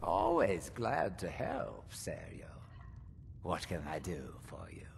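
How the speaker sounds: put-on very deep, very low, aged old man's voice. Character greeting a visitor who came for help: old man voice. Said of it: "You sound like an old man now".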